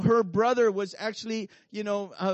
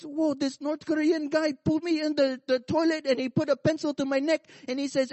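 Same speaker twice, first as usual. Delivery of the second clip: excited retelling pastor; 5 semitones higher than usual. Retold or imitated.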